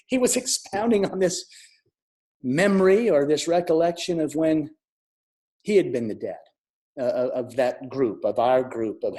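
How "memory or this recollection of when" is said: usual speaking voice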